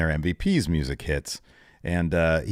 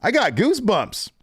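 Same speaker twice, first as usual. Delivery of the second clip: mock thrill; 13 semitones higher than usual. Brock thrilled by MVP's pitch.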